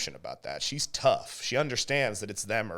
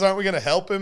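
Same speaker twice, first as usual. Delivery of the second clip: a hint of a worried young girl; lightly voiced pleading kid; 9 semitones higher, 7 dB louder, faster than usual. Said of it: "And she goes".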